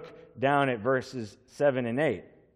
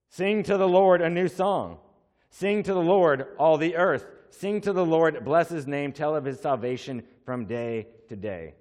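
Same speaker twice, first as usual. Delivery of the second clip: preached scripture; 3 semitones higher than usual. Real, not acted. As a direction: lift the verses up to the people. Reads psalm with fervor.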